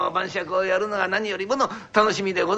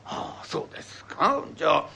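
put-on old wife; 3 semitones lower than usual. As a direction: answer innocently, missing the hint. Wife answers.

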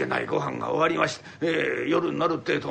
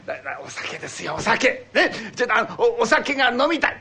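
higher, louder confession of craving; blurting it out; 4 semitones higher, 4 dB louder than usual. Acted. Old man finally admitting to his wife he wants sake, higher and louder. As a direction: finally say it, pleading.

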